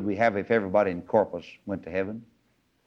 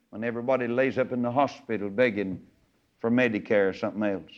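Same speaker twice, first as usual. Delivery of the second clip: impassioned high preaching prayer; 3 semitones higher than usual. Retold or imitated. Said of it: "get back to Him and say".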